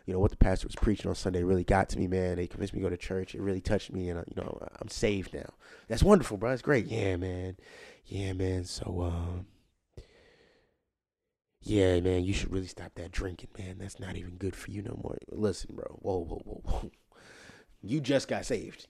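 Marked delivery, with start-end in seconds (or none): 0.0-5.5 mock earnest new convert. Voicing new Christian, lower, softer. 6.9-16.9 mock earnest new convert. Voicing new Christian, lower, softer.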